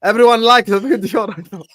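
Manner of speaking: high, laughing, drawn-out plea to like the video; hammed-up plea. Real, not acted. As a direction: beg the viewers playfully, stretching it out. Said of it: "Can you do this as well".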